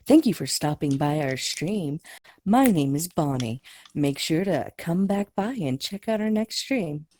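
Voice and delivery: polite, lilting scripted greeting; peppy customer service voice. Shown as a demonstration. Host thanking stream visitors, peppy customer service voice. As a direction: give it a practiced customer service lilt. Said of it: "just pep up your customer service voice".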